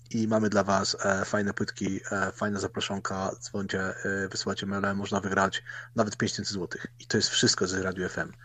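mild mock DJ hype; lightly voiced radio presenter; radio presenter parody. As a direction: rattle off the promos like an FM host. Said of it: "taki specyficzny sposób mówienia".

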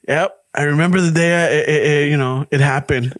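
low, trailing-off mock confession; mock therapy confession. Grown kid telling a therapist about the coffee.

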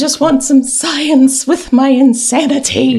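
loud, slow hammed-up declaration; comically unhinged demand; mock mad scientist. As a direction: play a cracking-up captain, loud and drawn out. Mock Janeway craving science.

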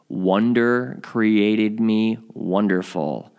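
deliberate, evenly patterned affirmations; affirmation recitation. Shown as a demonstration. Podcaster modelling the practice for listeners, deliberate affirmation recitation. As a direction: recite each one as a measured meditation, slowing towards the end.

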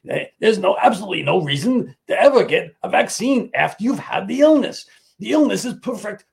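high, loud nasal-free mock Fauci voice, pitched well up; mocking impression of the health official, high and loud. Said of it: "I'm gonna do my Fauci voice".

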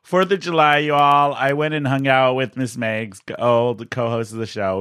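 slightly hoarse, voice a little gone. Real, not acted. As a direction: talk through a worn-out voice. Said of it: "So my voice is a little gone".

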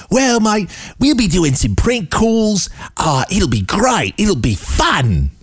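high, drawn-out Australian caricature; slow, hammed-up Australian accent; mock Australian. Host voicing jock at job interview, mock Australian.

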